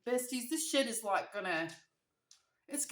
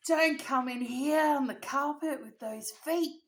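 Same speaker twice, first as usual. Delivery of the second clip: loud, higher, drawn-out parental telling-off; scolding dad; 5 semitones higher, 9 dB louder, slower than usual. Retold or imitated. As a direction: imitate dad barking a warning. Retold dad scolding her.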